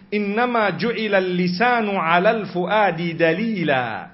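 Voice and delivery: fast recited Arabic saying; Arabic quotation. Shown as a demonstration. Preacher quoting an Arabic saying to the congregation, recited fast. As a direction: rattle off the Arabic proverb. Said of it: "the Arabic quotation".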